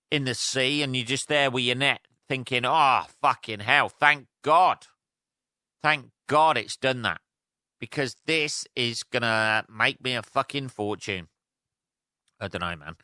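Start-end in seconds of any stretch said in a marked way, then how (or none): 2.7-11.3 thrilled fisherman. Pretend. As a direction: play a fisherman cashing in on his luck. Imagined fisherman thrilled by whale puke.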